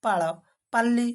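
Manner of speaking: ପାଳ with retroflex ଳ, ପାଲି with plain ଲ, slowly; careful minimal pair; contrasting l sounds. Shown as a demonstration. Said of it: "ବର୍ଣ୍ଣ ଦୁଇଟି ମଧ୍ୟ ଭିନ୍ନ".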